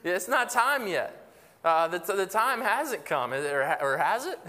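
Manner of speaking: hammed-up demon objecting it's too soon; accusing demons. Demons accusing Jesus of arriving early, mock protest. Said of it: "they're saying".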